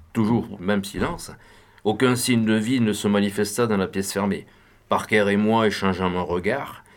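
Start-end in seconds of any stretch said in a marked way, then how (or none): none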